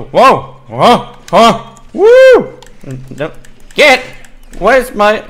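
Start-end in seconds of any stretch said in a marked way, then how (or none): 0.0-2.6 loud, much higher woo; excited whoop. Real, not acted. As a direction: let the woo fly up. Excited reaction in fight.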